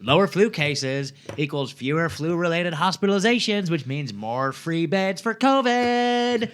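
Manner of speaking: mock valley girl reading the tweet. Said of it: "I'll do it more Valley Girl".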